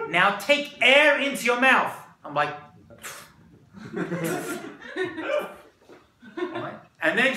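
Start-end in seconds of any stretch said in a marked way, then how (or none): 0.1-2.0 put-on loud, high, slow Israeli-accented command; emphatic coaching in an Israeli accent. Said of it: "Here's my Israeli accent". 3.7-5.6 imitated slurping of air; noisy wine-swilling sound effect; comic sputtering slurp; mouth noise demo. Imitates sucking air through wine.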